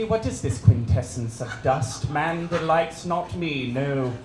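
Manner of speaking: low, solemn theatrical recitation of Hamlet; Shakespearean soliloquy. Acted. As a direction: intone it like a brooding Prince of Denmark on stage. Shakespeare soliloquy performed as Bill.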